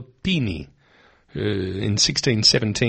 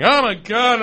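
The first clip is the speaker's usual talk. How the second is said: mock panic; 11 semitones higher, 4 dB louder than usual. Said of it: "she was freaking out, going".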